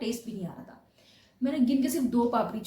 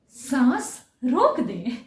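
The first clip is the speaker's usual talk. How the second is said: machine voice; 7 dB louder, much slower than usual. Retold or imitated. Voicing the machine's command.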